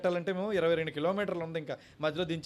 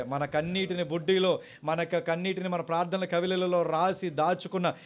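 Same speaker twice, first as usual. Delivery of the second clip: rising preaching; 7 dB louder, slower than usual. Real, not acted. Preacher building to prayer call.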